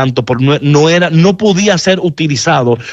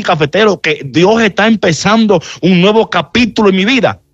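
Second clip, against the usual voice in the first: higher, fast, disbelieving objection; a hurt listener questioning the preacher, higher and fast; incredulous listener; 3 semitones higher, faster than usual. Acted. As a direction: play the doubter who can't believe it. Voicing a doubting listener's objection.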